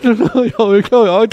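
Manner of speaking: loud, high, hammed-up crying; mock wailing. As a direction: burst into exaggerated bawling. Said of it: "tôi hòa lên, tôi khóc".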